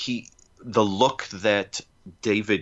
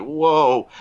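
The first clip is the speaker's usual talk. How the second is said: whoa; 5 semitones higher, 6 dB louder than usual. Retold or imitated. Describing the scary cliff stunt.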